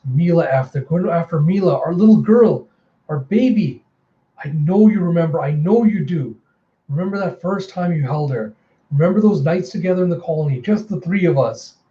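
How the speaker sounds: acted desperate coaxing; pleading. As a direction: plead with someone to remember. Prisoner pleads with his former partner.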